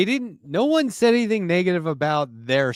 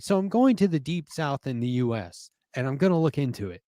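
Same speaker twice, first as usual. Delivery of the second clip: put-on Scottish accent. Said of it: "This is my Scottish accent".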